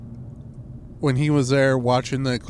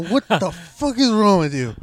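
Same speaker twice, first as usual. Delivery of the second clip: high, louder exasperated yell; retold yell at a student, high and loud; 6 semitones higher, 4 dB louder than usual. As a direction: yell it at the kids in disbelief. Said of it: "I go".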